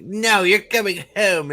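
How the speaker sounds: mock bickering mother; insistent mother. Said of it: "and she's like".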